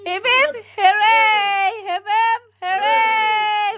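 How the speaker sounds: high loud birthday cheer; hooray cheer. Real, not acted. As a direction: shout it up to celebrate.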